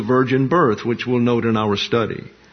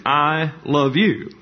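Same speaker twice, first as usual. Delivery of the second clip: "I" drawn out and stressed, slow; 2 semitones higher, slower than usual. Shown as a demonstration. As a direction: lean slowly on the word "I". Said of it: "put the emphasis on the subject".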